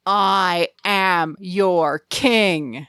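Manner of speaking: slow, commanding royal decree; domineering king. Retold or imitated. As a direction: proclaim it like a tyrant. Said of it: "he instantly goes straight to domination".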